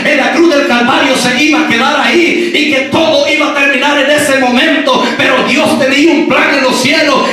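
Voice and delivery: rapid-fire, forceful preaching in places; prédica a toda fuerza. Real, not acted. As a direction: drive it home like a preacher in full flow. (predicación a toda voz, con fervor)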